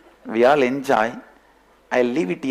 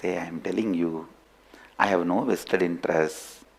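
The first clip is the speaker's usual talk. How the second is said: calm reassurance; 4 semitones lower, 4 dB quieter than usual. Acted. Lion reassuring the cub he means no harm, soft and calm. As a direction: lower and softer, a steady lion's reassurance.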